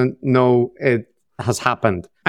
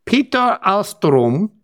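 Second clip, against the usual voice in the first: slow, higher Norwegian lilt; mock Norwegian accent; 4 semitones higher, slower than usual. Host reading out patron names, mock Norwegian accent. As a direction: draw the names out in playful Norwegian sing-song. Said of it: "I can't stop myself doing that".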